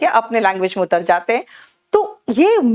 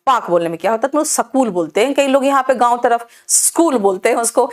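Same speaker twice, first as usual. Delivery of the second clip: playful teasing; faster than usual. Retold or imitated. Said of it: "टांग खींच देती हूँ".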